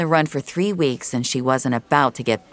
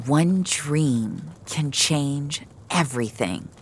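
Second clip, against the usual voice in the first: remembered voice; slower than usual. Acted. Remembered words of Frank.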